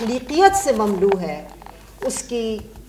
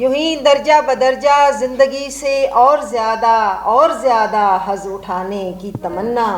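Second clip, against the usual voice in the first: measured, declaimed Urdu verse, each phrase set apart; stately verse delivery with falling line endings; poem recitation. Acted. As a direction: recite a nazm to a mushaira audience, lifting repeated lines. Recites her own nazm.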